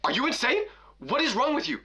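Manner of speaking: imitated outraged mother, drawn out then high-pitched; mock-shrieking parent, slow build to high pitch; mock yelling mom. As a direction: scold in disbelief, pitch climbing without real volume. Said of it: "then she starts yelling".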